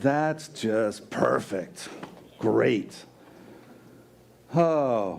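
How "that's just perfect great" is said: slow, heavy sarcasm with an edge. Showing how people say a familiar phrase: sarcastic. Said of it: "That little edge of sarcasm in it?".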